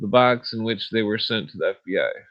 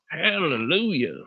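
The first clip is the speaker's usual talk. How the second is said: slow, higher Southern preacher hallelujah; country voice; 6 semitones higher than usual. Pretend. Exclaiming in his country voice. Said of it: "that's my country voice".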